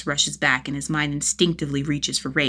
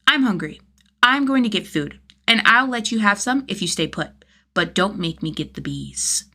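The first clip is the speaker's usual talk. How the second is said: put-on bossy kid; 3 semitones higher than usual. Child bossing Jason.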